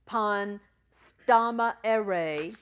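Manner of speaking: "Pan stama ere" very slow and loud; phonetic sounding-out. Shown as a demonstration. Teacher dictates for students writing, "Pan stama ere" very slowly. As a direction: spell out "Pan stama ere" by ear, with gaps between words. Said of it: "writing those phonetical helps".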